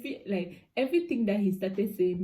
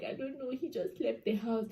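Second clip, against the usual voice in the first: higher, soft, helpless answer; retold tearful reply; 3 semitones higher, 5 dB quieter than usual. Crying woman answering best friend, mildly imitated upset. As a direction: imitate being upset, lightly. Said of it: "I was crying".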